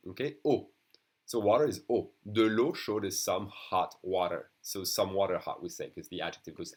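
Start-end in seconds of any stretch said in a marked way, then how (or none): 0.4-0.7 "O" said like the letter's name; louder model of the "O" sound. Shown as a demonstration. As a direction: give a single clear "O" vowel. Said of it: "just like the letter O".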